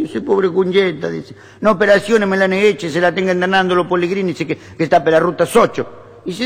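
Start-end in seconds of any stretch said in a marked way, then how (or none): 0.2-1.1 put-on high, drawn-out Italian-accented wail; Italian husband lamenting. Italian husband answering neighbour about his wife, mock lament. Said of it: "Hay un italiano". 1.6-4.3 Italian husband lamenting. Acted. Italian husband answering neighbour about his wife, mock lament. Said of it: "Hay un italiano". 4.4-5.9 Italian husband lamenting. Acted. Italian husband answering neighbour about his wife, mock lament. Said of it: "Hay un italiano".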